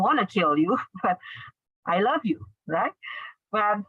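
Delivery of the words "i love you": "love" as the peak in contrast; stress on LOVE. Shown as a demonstration. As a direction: make "love" the word that counts. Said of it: "you stress on the verb".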